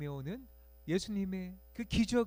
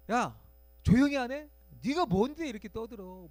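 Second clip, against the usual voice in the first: hushing crowd; 6 semitones higher, 7 dB louder than usual. Retold or imitated. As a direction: shut the beggar up. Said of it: "주변 사람들의 어떤 반응이었죠". (짜증 내며 조용히 하라고 윽박지름)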